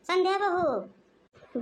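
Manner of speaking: drawn-out, very slow call; summoning someone with long vowels. Acted. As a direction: stretch the name out as you call. Calling out for daughter-in-law.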